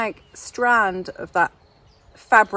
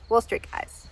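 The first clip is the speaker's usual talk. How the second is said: whispered in reverence; hushed aside; 5 dB quieter than usual. Acted. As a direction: drop to an awed whisper. Dreamy aside in character.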